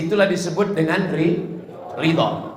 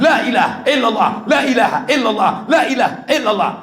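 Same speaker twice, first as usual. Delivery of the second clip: higher, louder chant speeding up; loud zikir; 4 semitones higher, 3 dB louder, faster than usual. Shown as a demonstration. Worshipper chanting zikir aloud, loud, higher and quickening. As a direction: call out the zikir with force. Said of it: "Ada orang yang berzikir kuat".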